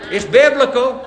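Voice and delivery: repeated in the same high laughing voice; mock excuse. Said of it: "You say".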